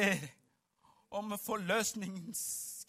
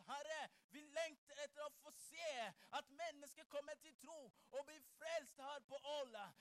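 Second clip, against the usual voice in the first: urgent, insistent prayer preaching; fervent prayer; 3 semitones higher, 11 dB quieter than usual. Acted. Preacher leading congregation in longing for healing, fervent prayer. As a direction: press each longing plea forward in rising waves.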